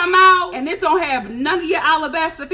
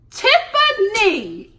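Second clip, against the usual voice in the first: very slow, louder cry of her name; drawn-out exasperated call; 6 semitones higher, 5 dB louder, much slower than usual. Real, not acted. Vlogger calling out to Tiffany, slow and exasperated. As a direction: stretch out the name in disbelief.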